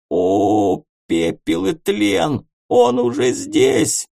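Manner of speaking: high, slow wailing terror; terrified cry. Acted. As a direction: cry out at what is coming. Ghost panics, crying.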